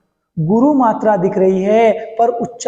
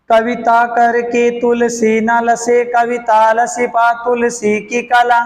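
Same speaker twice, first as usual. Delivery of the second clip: slow, measured verse recital; slow recitation; slower than usual. Shown as a demonstration. Teacher reciting a verse line to students, slow and measured. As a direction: recite the couplet slowly for the class.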